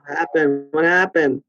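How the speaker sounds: choppy lagging call audio; glitchy dropped-out voice on a bad line; buffering stutter. Real, not acted. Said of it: "You cut out for, like, fucking fifteen seconds".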